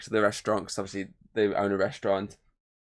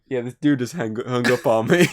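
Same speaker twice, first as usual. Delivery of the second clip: feminine operator; 6 dB louder than usual. Retold or imitated. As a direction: play the operator whining he hung up. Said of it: "basically just going".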